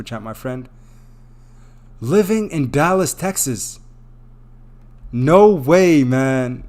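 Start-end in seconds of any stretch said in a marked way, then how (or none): 2.0-6.6 high, loud burst of astonishment; amazed disbelief. Real, not acted. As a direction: exclaim in happy disbelief at the donor. Astonished by a big super chat.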